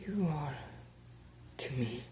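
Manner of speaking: faint tender voice. Acted. Dying wife tender.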